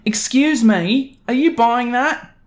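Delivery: high, slow, whiny entitled mother voice; drawn-out snooty demand from a pushy mother; entitled mum. Acted. Entitled mum cornering the customer at the counter, high and slow.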